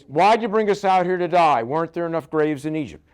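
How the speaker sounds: hammed-up grumbling at Moses; mock complaint. Israelites accusing Moses at the sea, mock indignant.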